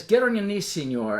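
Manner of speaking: lightly imitated command in broken English; broken English order, falling away at the end. Soldier orders passenger to kneel, in broken English. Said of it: "he talks in broken English".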